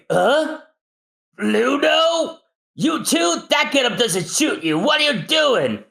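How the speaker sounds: high, brash Frankie voice. Acted. Frankie suspects Zombie's men at door, brash.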